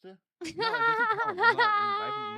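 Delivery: laughing. Real, not acted. Protesting while laughing in game.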